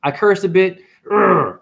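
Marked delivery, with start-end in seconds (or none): 1.1-1.6 short throaty growl; mock growl. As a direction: growl in place of a curse. Imitates his own cursing.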